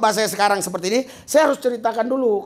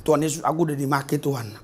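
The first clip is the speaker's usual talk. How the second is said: mock complaint to God; 6 semitones lower, 4 dB quieter, faster than usual. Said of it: "Eh, kok".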